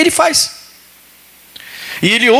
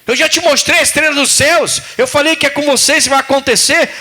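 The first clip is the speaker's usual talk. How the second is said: raised, pleading voice of God; a lightly raised mock voice of God; God's voice; 7 semitones higher than usual. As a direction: voice God kindly forbidding. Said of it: "Deus não fala assim".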